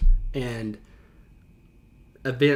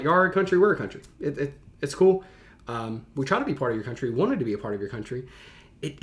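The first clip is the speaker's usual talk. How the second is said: breezy, no-big-deal shrug in the voice; casual nonchalant tone; faster than usual. Retold or imitated. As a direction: toss it off lightly like it's nothing. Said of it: "I love, like, the, the tone of".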